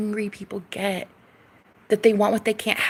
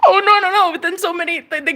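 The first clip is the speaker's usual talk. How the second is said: laughing disbelief; 8 semitones higher, faster than usual. Real, not acted. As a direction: crack up in disbelief.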